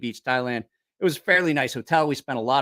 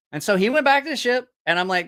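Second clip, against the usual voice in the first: normal talking voice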